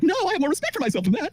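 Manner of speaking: mock-indignant woman in a very high voice. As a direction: squeal it like an offended woman, mocking her. Acting out offended women's answer.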